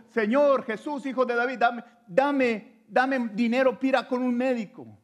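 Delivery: hammed-up grasping beggar; mock greedy plea. Preacher imitating the wrong request to Jesus, hammed-up loud begging. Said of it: "No le dijo eso".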